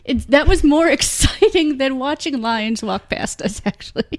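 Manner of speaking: whispering. Real, not acted. Whispered with laugh.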